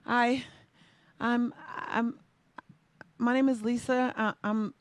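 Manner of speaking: put-on scared kid asking the judge to skip the race; nervous stammer. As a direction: stumble nervously through the request.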